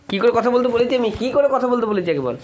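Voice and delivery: laughing mock scolding. Parent half-laughing scolding question.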